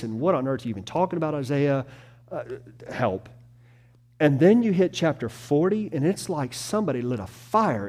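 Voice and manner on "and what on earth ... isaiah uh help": mock exasperation. Mock frustration reading Isaiah.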